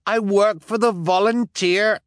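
frantic. Acted. Jacques still frantic.

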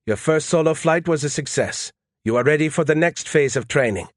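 steady, encouraging instructor tone; Desai reassuring. Acted. Desai assuring the colonel after his solo, mild reassurance. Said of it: "Desai assured me".

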